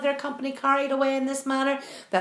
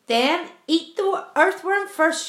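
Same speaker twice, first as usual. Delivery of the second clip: shouted; 4 semitones higher, slower than usual. Acted. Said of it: "shouted the centipede".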